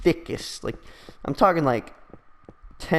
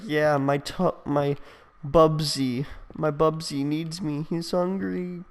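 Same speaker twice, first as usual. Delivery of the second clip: lightly voiced pleading emo kid, pitched up; mock pleading; 5 semitones higher, slower than usual. Emo kid worried about his Webkins, mildly hammed-up pleading. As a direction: plead a little childishly for your pet.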